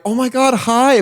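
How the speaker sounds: high bright sales voice; overly sweet greeting; customer service voice. Retold or imitated. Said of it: "customer service voice".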